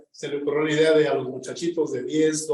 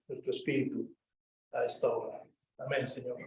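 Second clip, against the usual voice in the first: subdued, lower-pitched praying voice; prayer; 4 semitones lower than usual. Real, not acted. Leads an opening prayer.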